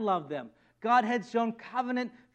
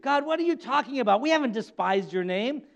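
sarcastic protest. Acted. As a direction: deny it smugly. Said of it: "sarcastic attitude".

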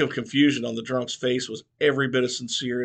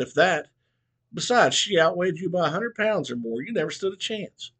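mocking old barber; 5 semitones higher than usual.

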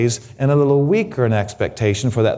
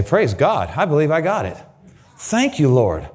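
growing praise. Retold or imitated. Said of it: "you get bigger and bigger".

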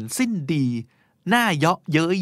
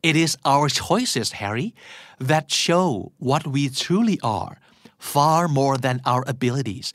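slow, wise old wizard quote, only a hint of a put-on voice; lightly voiced Dumbledore; much slower than usual. Podcast host quoting Harry Potter to listeners, mild Dumbledore voice. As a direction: read it like a gentle headmaster, barely acted. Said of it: "เอาเป็นสำเนียงประมาณนี้แล้วกัน".

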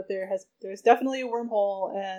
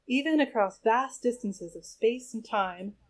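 dreamy voiceover. Acted. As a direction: float the line like a fairy tale. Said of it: "Dana said in a dreamy voiceover".

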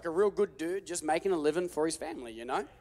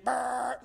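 engine noise; 6 semitones higher than usual. Retold or imitated. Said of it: "and the engine".

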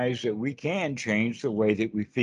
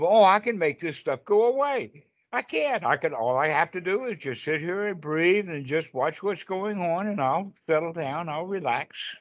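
mock naive optimism; 4 semitones higher than usual. Mock naive attitude quote.

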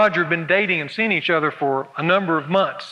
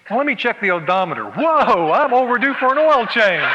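car-minded Roger; 3 semitones higher than usual. Acted. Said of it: "Which means".

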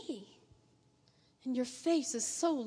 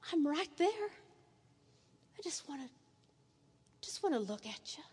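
tender voice of God. Acted. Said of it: "And yet he says".

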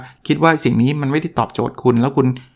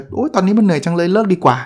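higher-pitched mock whine of giving up; weary quitter's complaint; 5 semitones higher than usual. Imagined startup founder tempted to quit, mock-weary complaint. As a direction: act out a tired quitter, pitched up.

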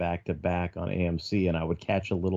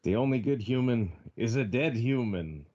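menacing ape voice; 4 semitones higher than usual. Acted. Introduces self with ape quote.

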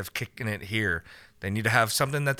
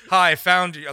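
anime guy; 5 semitones higher, 6 dB louder than usual. Acted. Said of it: "the anime guy comes in the room and says".

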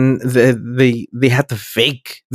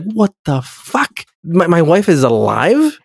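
mock shock; 4 semitones higher, slower than usual. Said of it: "he's like".

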